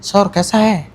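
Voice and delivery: Hindi with a Bengali accent. Shown as a demonstration. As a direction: speak it like a Bengali. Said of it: "Bengali वाला के style में भी बोलने बोलो".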